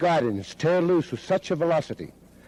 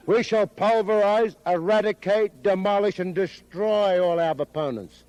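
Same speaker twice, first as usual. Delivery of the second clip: roaring threat; 4 semitones higher than usual. Acted. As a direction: spit out each threat word. Manager roars threats in promo.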